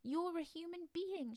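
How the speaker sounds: high, slow mermaid voice; mermaid in wonder. A narrator's reading. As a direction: voice an astonished mermaid, pitched high.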